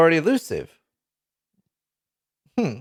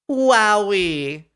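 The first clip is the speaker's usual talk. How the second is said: higher, very slow, drawn out in awe; amazed wowie; 5 semitones higher than usual. Real, not acted. Streamer reacting to a huge buff, slow stretched amazement. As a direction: savor the disbelief, stretching every word.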